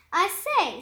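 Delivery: a prim little I say; spider speaking. Acted. Spider greets the bug, lightly voiced. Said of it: "said the spider".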